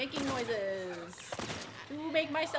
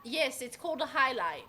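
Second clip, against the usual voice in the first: patronising. Real, not acted. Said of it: "Why did that sound so patronising?".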